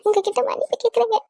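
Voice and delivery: high-pitched mock weeping; put-on tearful apology. Wife begs husband's forgiveness at his feet, fake tearful. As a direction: plead for pardon, faking sobs. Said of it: "அழுவாத".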